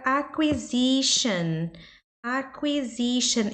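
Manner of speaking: slow "acquisition" with "kwi" as in quick; "acquisition" drawn out, clear "kw" sound. Shown as a demonstration. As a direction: model "acquisition" slowly as "a-kwi-ZI-shun". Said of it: "Esse qui aqui é igual o qui do quick".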